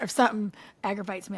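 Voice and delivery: ordinary delivery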